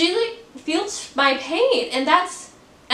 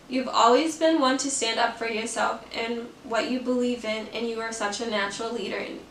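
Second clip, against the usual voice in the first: softer, even read of a heartfelt message; reading aloud; 3 semitones lower, 4 dB quieter than usual. Real, not acted. Vlogger reads a friend's loving text aloud, soft reading voice. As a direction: read a friend's kind words softly.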